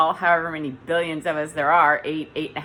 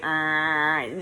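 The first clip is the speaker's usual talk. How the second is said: monotone droning "uhh"; robotic drone; 3 semitones lower than usual. Shown as a demonstration. Showing how robotic they can sound, monotone drone. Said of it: "I can sound very robotic".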